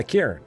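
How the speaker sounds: Cairn said as one syllable; pronunciation demo. Shown as a demonstration. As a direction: model Cairn like Karen squeezed into one beat. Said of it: "It's like trying to say Cairns".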